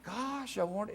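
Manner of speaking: put-on hushed child's thought. Child's thought under crying stepdad.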